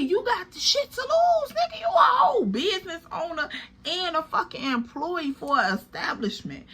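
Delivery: retold yell. Telling Andre off for risking his business, sudden high shout. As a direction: pitch jumps up into a yell. Yelling at boyfriend in car.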